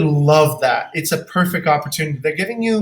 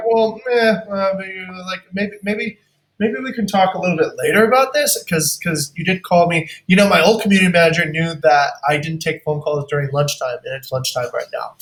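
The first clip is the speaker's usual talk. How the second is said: put-out client. Acted. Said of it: "let's stop the simulation".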